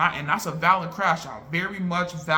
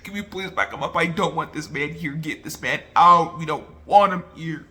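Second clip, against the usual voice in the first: getting mad. Retold or imitated. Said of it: "I'm getting mad too".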